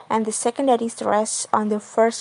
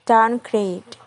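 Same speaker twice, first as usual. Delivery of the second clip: "downgrade" with main stress on "grade"; stress on second word. Shown as a demonstration. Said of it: "The primary stress is in our grade".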